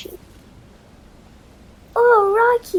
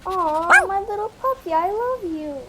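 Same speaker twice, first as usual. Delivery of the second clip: tender; 2 semitones higher than usual. Acted. Cuddling found puppy.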